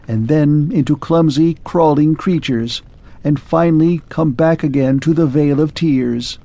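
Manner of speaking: lightly voiced machine losing hope; clockwork man. Clockwork man confides his one hope to Arthur.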